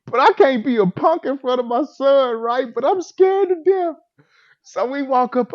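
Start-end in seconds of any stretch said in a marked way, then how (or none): 0.1-3.9 high, loud, worked up; excited storytelling. Real, not acted. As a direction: tell it all worked up. Excitedly telling scary moment.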